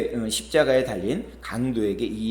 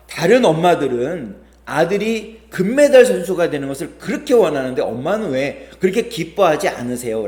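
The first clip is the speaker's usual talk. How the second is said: angry son; 5 semitones higher, 5 dB louder than usual. Retold or imitated. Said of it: "이 아들이 화가 나서 이렇게 얘기했어요".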